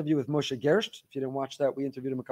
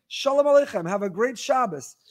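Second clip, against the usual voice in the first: imitating a cheerful stranger's greeting; mock exuberant greeting; 6 semitones higher than usual. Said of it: "with a big exuberant grin and said".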